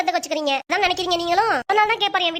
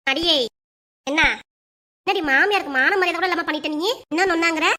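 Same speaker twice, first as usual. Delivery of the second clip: indignant, raised voice; mother-in-law confronting her daughter-in-law, indignant and raised; angry confrontation. Acted. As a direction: demand an answer from the daughter-in-law.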